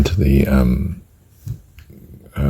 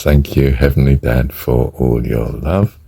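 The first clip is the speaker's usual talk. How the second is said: slow mantra on the in-breath. Shown as a demonstration. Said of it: "Or as I do it".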